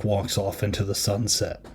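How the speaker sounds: soft whispered aside. Real, not acted. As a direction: whisper it wistfully. Mocking sappy ending.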